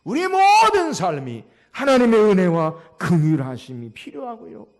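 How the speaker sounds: loud, emphatic sermon delivery; projected pulpit proclamation; forceful preaching. Real, not acted. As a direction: preach it out with key words stretched.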